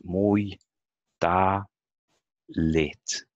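"Mui, ta, lit" spoken syllable by syllable, each one loud and separate; split into syllables. Shown as a demonstration. Teacher counts syllables for students, slow and loud. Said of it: "They have three syllables".

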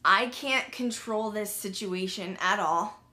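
slow, resigned calm; retold tranquility. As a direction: let it go slowly and evenly. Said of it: "some tranquility came over me".

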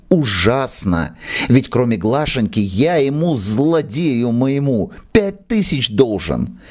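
put-on pleading old manager.

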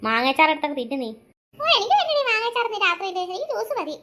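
possessed roommate pushing the pickle; possessed angry voice. Acted. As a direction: growl the order down low. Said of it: "നീ എന്താ ഇങ്ങനെ ദേഷ്യപ്പെടുന്നേ".

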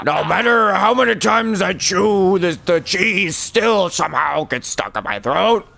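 imitating someone choking on a mozzarella stick; hammed-up strangled, struggling voice; choking on food. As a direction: talk as if cheese is stuck in your throat. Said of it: "Sounds like he's choking on a mozzarella stick every time he tries to talk".

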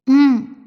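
a sudden loud hum during a kiss; loud startled mm sound. A narrator's reading. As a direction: let out a surprised loud mm. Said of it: "അഗ്നി മൂളി".

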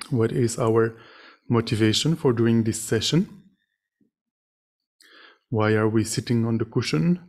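measured meditation teaching with long pauses; guided meditation. Real, not acted. Meditation teacher leading sitters to reflect on suffering and compassion, guided meditation. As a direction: guide them gently, phrase by phrase, leaving silences.

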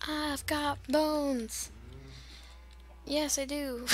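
slow playful whisper; teasing whisper. Pretend. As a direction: breathe it out secretly. Whispering about bones.

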